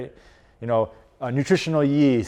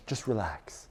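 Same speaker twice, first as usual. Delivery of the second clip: much softer, mocking a coach's calm cue; mock soothing coach; 4 semitones lower, 14 dB quieter than usual. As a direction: parody a lazy calming cue. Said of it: "had a coach tell you that".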